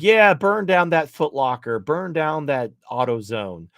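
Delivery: lightly voiced celebrity egging the rioters on; mock celebrity cheering from afar.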